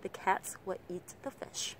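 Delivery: "the" and "will" very short, CATS, EAT, FISH held; short weak words. Shown as a demonstration. Teacher demonstrating short function words, three beats. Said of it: "Quan trọng nhất là độ ngắn".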